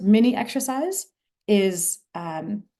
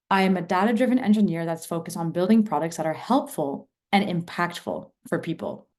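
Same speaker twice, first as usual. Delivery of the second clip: "and impactful" stressed, falling to the end; emphasis variant three. Shown as a demonstration. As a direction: save the punch for "and impactful". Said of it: "I'm gonna say it again three times".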